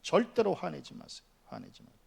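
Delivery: usual speaking voice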